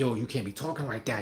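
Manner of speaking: low, hushed, spooky-sounding voice.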